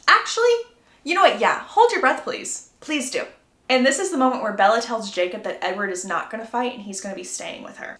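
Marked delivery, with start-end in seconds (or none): 0.1-3.3 excited sarcastic comeback, higher and louder. Real, not acted. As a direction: egg him on mockingly. Own sarcastic retort to Jacob.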